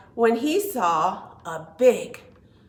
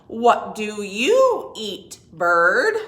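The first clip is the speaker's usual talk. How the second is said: frog asking; 6 dB louder, slower than usual. Acted. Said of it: "said the wide-mouthed frog".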